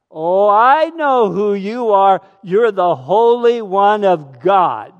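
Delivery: slow, loud, strained demon voice; possessed man shouting slowly at Jesus; crying-out demon. Acted. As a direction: cry out like a cornered spirit. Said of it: "possessed by an evil spirit cried out".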